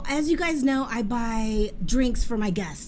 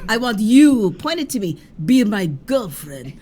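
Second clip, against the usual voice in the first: mock insistent proposal; 8 dB louder than usual. Retelling the proposal again.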